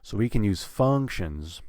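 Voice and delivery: "functions" held out on its first syllable; stress on functions. Shown as a demonstration. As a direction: lift and lengthen the start of "functions". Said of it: "have it at a higher pitch".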